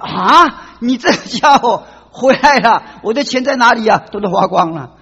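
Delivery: a hammed-up scold with a laugh in it; mock angry scolding. Master scolding his returned runaway slave, mock angry.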